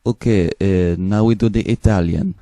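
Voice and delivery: lightly put-on Eastern European accent. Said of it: "I take Eastern European accent".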